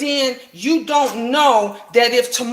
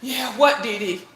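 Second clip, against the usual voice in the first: impatient what; 4 dB quieter than usual. Retold or imitated. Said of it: "That's how I was sounding".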